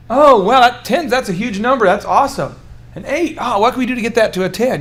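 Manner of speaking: upbeat, eager praise; enthusiastic validation. Shown as a demonstration. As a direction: cheer them on warmly. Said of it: "You wanna just validate".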